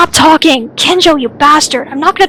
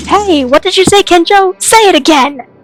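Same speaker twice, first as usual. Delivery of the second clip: raised, higher, confrontational voice; angry challenge; 5 semitones higher, 5 dB louder than usual. Acted. Challenging Kenjo over what was just said, angry. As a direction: demand it loudly, squaring up for a fight.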